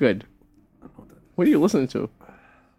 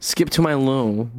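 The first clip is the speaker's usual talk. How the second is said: nasal voice; slower than usual. Pretend. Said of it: "You sound very nasally".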